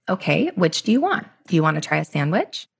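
mildly voiced patient mother, even and unruffled; calm parent. Mother offering food to her freaking-out son, mild calm. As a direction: offer choices gently, without reacting. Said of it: "It's so calm".

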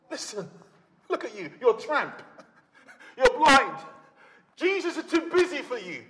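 dismissive mockery with a laugh; mocking crowd. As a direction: jeer at the beggar to shut him up. Crowd mocks blind beggar.

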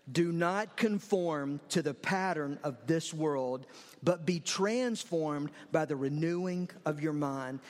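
congregation reading aloud together; many voices in unison. Shown as a demonstration. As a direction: recite together with gusto. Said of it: "I want us to read it aloud together".

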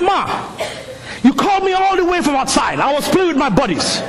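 a son's mock-outraged retort to his mother; indignant back talk. Kid talking back to mother.

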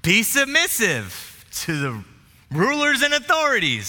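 mock divine voice reciting the verse; voice of conscience. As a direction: let the verse thunder in your head like a voice from above. Scripture popping into his mind.

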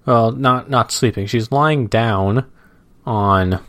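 slow, measured reading aloud; comic strip read-aloud. Acted. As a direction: describe the cartoon at an easy pace.

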